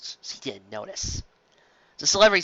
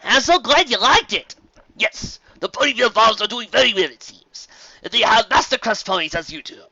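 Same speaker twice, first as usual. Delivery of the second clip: bright, eager, raised pitch; excited pony voice; 8 semitones higher, 6 dB louder than usual. Acted. Farmer pony gushing to Fancy Pants, higher and eager. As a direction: gush happily at the compliment.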